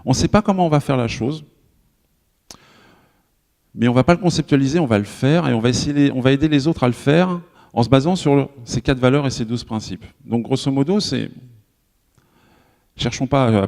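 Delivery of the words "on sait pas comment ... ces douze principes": quoting the manifesto. Retold or imitated. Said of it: "ça dit un truc comme".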